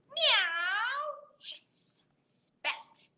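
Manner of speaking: high meow then a breathy hiss; cat meow and hiss. Acted. Reader voicing the cat hissing at the dogs, high meow then hiss.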